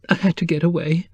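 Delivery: breathless frightened whisper. Acted. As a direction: whisper it, barely holding together. Distraught woman fleeing husband.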